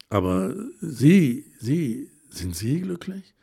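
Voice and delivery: a touch of anger, pressing the question; mildly cross, insisting on an answer; rather angry. A narrator's reading. Helma demanding whether Verena is happy, mildly angry. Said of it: "es klang ordentlich böse".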